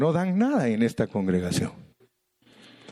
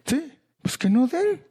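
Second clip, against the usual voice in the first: emphatic echo. Real, not acted. Echoing the Lord, emphatic.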